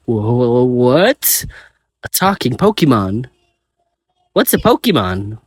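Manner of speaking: shocked stammer, tripping over the first words; stuttering in shock. Acted. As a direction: stammer in disbelief at a talking creature. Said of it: "as I stutter".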